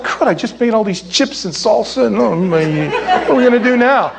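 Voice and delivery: a half-joking host whose party fell flat; mock dismay. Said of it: "It's like".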